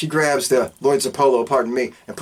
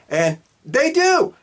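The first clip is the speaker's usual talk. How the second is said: much higher, slow, drawn-out cheer; mock triumphant; 13 semitones higher, much slower than usual. Narrator cheers the baby's rescue, slow and much higher. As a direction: stretch it out like a big victory fanfare.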